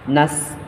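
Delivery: নাস with a thin whistling s; sparrow-like seen. Shown as a demonstration. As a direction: hiss the end of নাস like a sparrow. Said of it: "চড়ুই পাখির আওয়াজের মতো একটা উচ্চারণ হবে". (নাস-এ চড়ুই পাখির মতো সিন)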